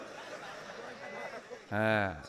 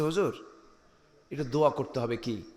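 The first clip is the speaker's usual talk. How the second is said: low, softened voice; imitated confiding request; 4 semitones lower, 8 dB quieter than usual. Factory man privately asking the preacher for a prayer, hushed request. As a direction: quietly ask a favour, as if in someone's ear. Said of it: "উনি আমাকে কানে কানে বলতেছেন".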